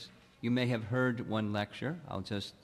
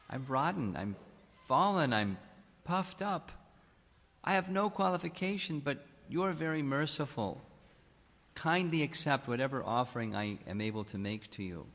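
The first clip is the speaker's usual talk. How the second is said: a touch of tearful trembling, lightly imitated; retold choked-up plea; 2 semitones higher than usual. Retelling the guru's humble plea to Krishna, lightly tearful. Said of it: "his voice trembled and choked up".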